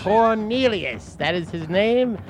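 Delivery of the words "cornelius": slow, drawn-out mock British accent; Cornelius Finch. Shown as a demonstration. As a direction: stretch the name in fake British. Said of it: "that's the accent".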